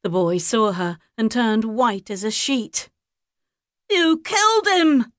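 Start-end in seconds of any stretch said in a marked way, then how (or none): 3.9-5.1 high, loud terrified accusation; high panicked young boy; horrified boy. A narrator's reading. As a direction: blurt it in shock.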